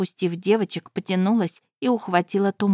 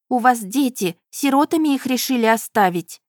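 louder, rising alarmed calls; alarmed shout; 5 semitones higher, 4 dB louder than usual. Acted. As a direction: stop her, urgent. Heroine pleads with woman.

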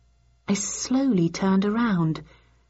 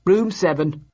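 shortly. Acted. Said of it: "he replied shortly".

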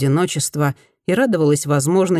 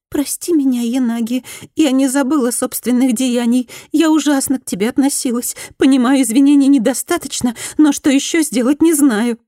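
higher, pleading former bully; repentant woman; 9 semitones higher, 4 dB louder than usual. Acted. Former bully apologises to Fumi, higher pleading voice. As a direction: beg forgiveness in a higher voice.

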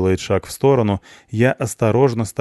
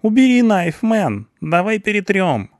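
high, loud, frantic pleading; jittery slangy young guy; panicked slacker; 12 semitones higher, 4 dB louder than usual. Acted. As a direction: beg him to drop the knife.

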